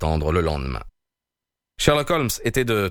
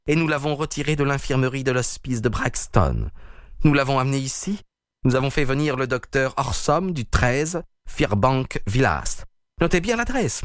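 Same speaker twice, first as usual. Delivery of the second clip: higher, gloating villain voice; sneering villain; 5 semitones higher than usual. A narrator's reading. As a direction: taunt the detective with mock courtesy. Peters taunting Holmes. (voix aiguë et railleuse du méchant)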